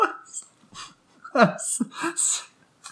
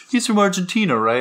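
higher-pitched quote of a mother; higher imitated questioning voice; imitating mom; 6 semitones higher than usual. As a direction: mimic mom checking, pitched up. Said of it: "But she's like".

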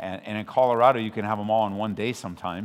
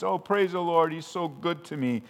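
glib praise; 7 semitones higher than usual. Retold or imitated. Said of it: "sometimes it loses its significance".

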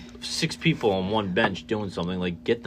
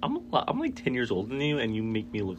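exasperated squeak; 5 dB quieter than usual. Retold or imitated. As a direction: squeak out the complaint in disbelief. Retold self-talk to huge kid.

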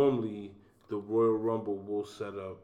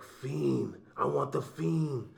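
half-hearted imitation of a pissed-off wrestler; mock pissed off; 5 semitones higher than usual. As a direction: play at being angry on the mic. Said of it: "all fucking pissed off".

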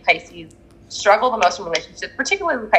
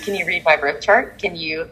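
eager relative; 4 semitones lower, 5 dB quieter than usual. Retold or imitated. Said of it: "someone's like".

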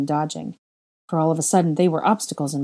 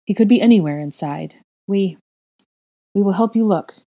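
louder, rising offer; building resolve; 3 semitones higher, 5 dB louder than usual. Acted. Girl promising the grieving parents help, growing louder. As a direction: swell with conviction.

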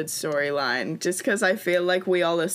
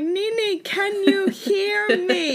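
calling out; 13 semitones higher, 4 dB louder, slower than usual. Retold or imitated. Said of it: "when she's like".

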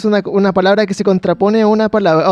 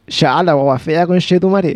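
Santiago slang; 4 semitones lower, slower than usual. Retold or imitated. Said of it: "la gente sí es de Santiago diría".

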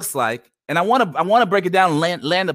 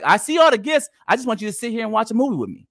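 imitating wife; 3 semitones higher, faster than usual. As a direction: voice the wife asking for time, not gifts. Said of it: "and she's like".

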